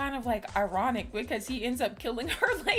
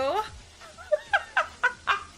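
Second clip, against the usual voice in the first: shrill burst of laughter; high squealing laugh; 3 dB louder than usual. Real, not acted. Cracking up at the character.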